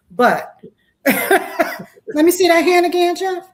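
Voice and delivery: high, slow, teasing ask; playful flirt. Real, not acted. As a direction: draw it out playfully.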